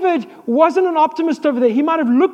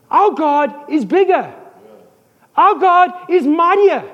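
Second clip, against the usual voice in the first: bold declaration; 4 semitones higher than usual. Retold or imitated. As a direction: proclaim it like a battle cry of faith. Preacher voicing David's bold faith.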